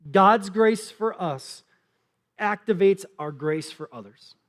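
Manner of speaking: God's grace for us said slowly, word by word; slow dictation. Shown as a demonstration. Pastor dictating the key point, slow and deliberate. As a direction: spell it out for note takers. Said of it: "you can write this down".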